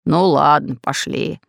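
grudging, fading into a whispered пошли; reluctant. A narrator's reading. The pirate reluctantly agrees to turn back. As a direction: give in unwillingly. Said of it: "нехотя согласился Бульбуль".

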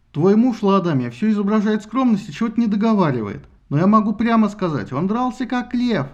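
Hermes cutting in to praise the husband, cheerful; cheerful god Hermes. Acted. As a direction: boast for him like a jolly herald.

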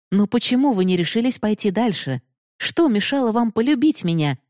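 agitated. Acted. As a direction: press him anxiously for an answer. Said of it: "взволнованно продолжала". (взволнованно, с лёгким напором)

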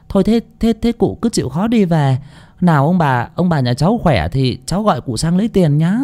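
lightly voiced nervous servant girl; flustered young maid. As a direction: fumble and stall, trying to dodge the bill. Flustered maid stalls the doctor.

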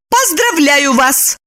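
high, drawn-out exclamation; angry cry. A narrator's reading. Lipochka loses her temper with Roman, crying out. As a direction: cry out, losing patience. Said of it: "закричала она".

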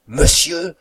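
high, loud, rising exclamation; aghast cry. A narrator's reading. Cook crushed at seeing her master, aghast high cry. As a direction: cry out high, with the end lifting. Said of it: "s'écrie la cuisinière anéantie".

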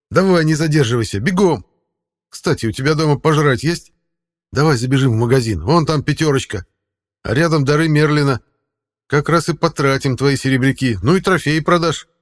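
high, loud cat voice; snooty bored cat. Acted. Cat speaks in story.

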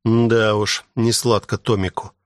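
ordinary delivery

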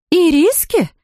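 shocked disbelief at the word; astonished cry. A narrator's reading. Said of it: "вскричала миссис Браун". (изумлённый возглас)

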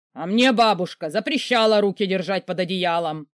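громкий резкий рявк; гаркнуть обиженно; рявкнул. Acted. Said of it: "рявкнул появившийся рядом". (великан рявкает на героиню, громко)

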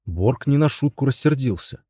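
plain reading voice

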